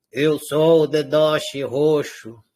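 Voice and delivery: slow, low puppet voice; a low, slow second puppet; disguised deep voice. Pretend. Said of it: "Vou mudar a voz deles pra vocês pensarem que é diferente".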